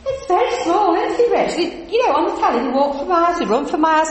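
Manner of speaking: playing her younger self, rattling on at a match; breezy chatter at the football; chatty self quoted. Preacher voices her chatty past self.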